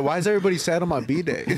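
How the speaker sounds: put-on high, laughing whine of a clueless birthday boy; laughing mock whine. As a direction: giggle through the pouty question. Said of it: "You're like, like".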